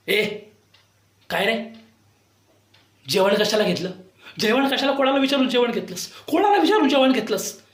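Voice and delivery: madam screeching about who allowed the food; shrill madam. Retold or imitated. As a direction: screech like a bossy woman. Madam shouting at him, retold.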